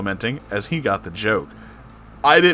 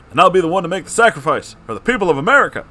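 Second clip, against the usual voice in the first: much higher, louder and fast heroic speech; hammed-up brave president; brave Obama; 8 semitones higher, 6 dB louder, much faster than usual. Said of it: "with brave selflessness in his voice".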